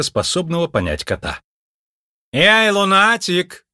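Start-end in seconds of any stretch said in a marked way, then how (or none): 2.3-3.7 громкий медленный злой окрик; рявкнуть на чудака с порога; сердитый окрик. A narrator's reading. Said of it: "фурией вылетела женщина". (Мардж злобно окликает Лунветра, громко)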